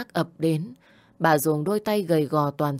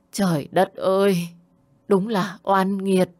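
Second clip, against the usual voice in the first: loud lament, then a slow, heavy sigh of fate; grandma crying out at the cruel twist of fate; anguished cry; 3 semitones higher, 5 dB louder than usual. A narrator's reading. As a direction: wail to heaven, then slow down in grief. Grandma learns he died.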